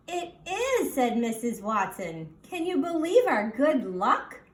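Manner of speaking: high, bright delight; delighted wife. Acted. Wife tells cranky neighbor of her luck, high and delighted. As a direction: share your good luck gleefully.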